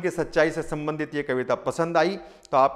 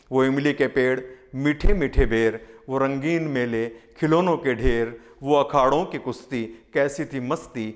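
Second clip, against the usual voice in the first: measured Hindi verse recital with lingering line endings; poem recitation. Acted. Poet sharing a poem on childhood and life with listeners, poem recitation. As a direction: recite the poem in rhythmic, separated phrases.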